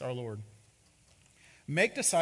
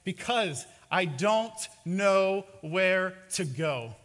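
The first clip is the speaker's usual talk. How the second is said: helpless shrug; 2 semitones higher, 5 dB louder, slower than usual. Retold or imitated. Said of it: "shrugs his shoulders as if to say".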